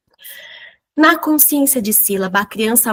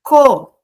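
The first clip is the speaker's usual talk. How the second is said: co said alone and louder; added syllable; 2 semitones higher, 6 dB louder than usual. Shown as a demonstration. Teacher adding a syllable, said louder. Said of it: "Vou colocar aqui".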